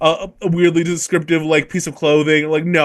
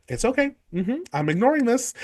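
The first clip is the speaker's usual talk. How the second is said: breezy dismissal; 6 semitones higher, 7 dB quieter than usual. Retold or imitated. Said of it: "fully is like".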